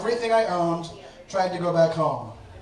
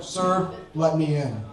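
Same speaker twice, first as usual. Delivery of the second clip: stern demand; 3 semitones lower, slower than usual. Retold or imitated. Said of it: "she's very stern".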